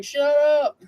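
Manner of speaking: high, put-on wife voice telling him to shut up; imitating his wife snapping at him; wife's mock snap. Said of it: "She's like".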